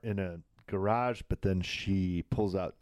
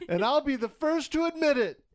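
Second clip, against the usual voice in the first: Showalter line read; 3 dB louder than usual. Retold or imitated. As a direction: deliver a pointless confession with total gravity. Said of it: "immediately looks at it and goes".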